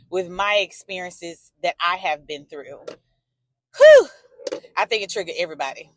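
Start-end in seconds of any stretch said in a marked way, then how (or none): 3.8-4.1 big loud exhale of relief; loud whew. Real, not acted. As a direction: let out a loud whew, overwhelmed. Overwhelmed exhale reacting to story.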